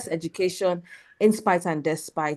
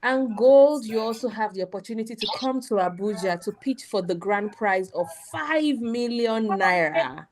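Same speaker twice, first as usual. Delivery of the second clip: booming prize announcer. Acted. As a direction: announce the grand prize with punch.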